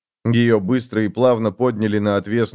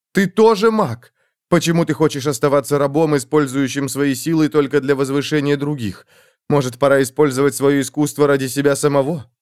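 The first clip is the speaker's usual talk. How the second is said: passionate urging; 3 semitones higher than usual. Acted. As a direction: press him hard, passionately. Girl passionately urges Hemsa.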